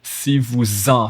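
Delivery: "vous en" linked slowly as "vou-zen"; slow liaison vous en. Shown as a demonstration. Teacher slowly showing the liaison to students. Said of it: "linking the S of vous to the en".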